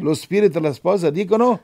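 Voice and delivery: declaimed scripture cue; leading a responsive reading. Real, not acted. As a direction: call out the verse for a response. Leads congregation in responsive verse.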